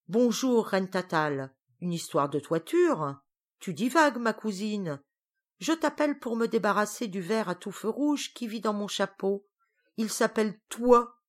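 a lightly voiced fussy witch; Griselle. Griselle explains her problem.

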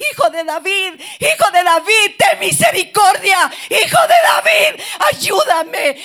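a beggar screaming for rescue, voice cracking; desperate shout. Retold or imitated. Blind man crying out to Jesus, desperate breaking shout. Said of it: "él lo gritaba con desesperación".

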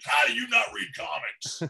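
high, loud retold exasperation; annoyed mock shout. Annoyed friend to a non-reader of comics, mock shouting. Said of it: "I think he gets annoyed by that".

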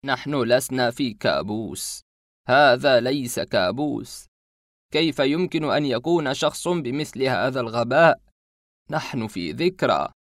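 slow, loud, frightened urging; fearful tone. Acted. Masked man holds the boy's shoulders, slow and fearful. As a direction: grip his shoulders and urge him, afraid. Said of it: "بلهجة مليئة بالخوف".

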